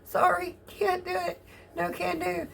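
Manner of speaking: lightly voiced stubborn back saying no; voicing her back. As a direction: give the back a cheeky, apologetic voice. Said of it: "my back goes".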